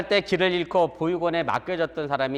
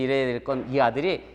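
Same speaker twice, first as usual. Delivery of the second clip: ordinary delivery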